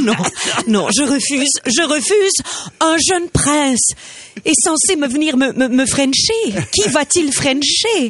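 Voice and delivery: high, indignant princess refusing; stubborn princess refusing to leave. Acted.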